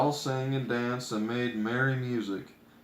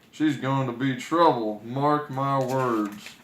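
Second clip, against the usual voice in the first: grumpy dwarf; 4 dB louder than usual. Acted. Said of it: "said Grumpy".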